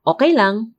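mock "okay" reply, lifted pitch; sarcastic stock answer. Sarcastic example of how Filipinos answer "Kamusta ka?", mock okay. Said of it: "I'm being sarcastic".

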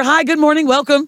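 high, cheery morning-show welcome; put-on chipper broadcast hello; chipper TV greeting. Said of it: "we gotta make sure you're chipper".

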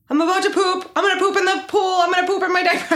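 put-on high-pitched little-kid announcement; imitated toddler. Imitating toddler announcing she must poop.

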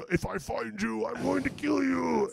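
high, stretched-out mock roar; held-back imitation of roaring; re-enacted yell. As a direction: draw out the threat like a distant bellow. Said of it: "what did you yell again?".

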